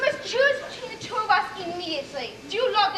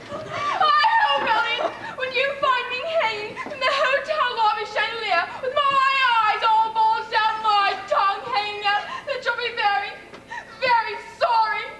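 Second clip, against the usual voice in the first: melodramatic threat; 3 semitones higher than usual. Acted. Melodramatic threat on losing husband.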